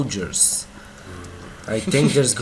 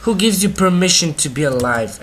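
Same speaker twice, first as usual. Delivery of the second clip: much higher, much louder indignant shout; outraged yell; 6 semitones higher, 9 dB louder than usual. Real, not acted. Player shouting at a monster that surprised him, outraged. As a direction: bellow it at the monster in your face. Yelling at a mob.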